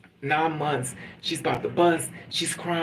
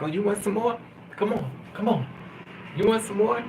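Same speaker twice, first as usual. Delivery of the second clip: higher-pitched goading; acted taunt; 5 semitones higher than usual. Love daring the hurt person back in, mock goading. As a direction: egg them on in a raised mock voice. Acts out tormentors offering more.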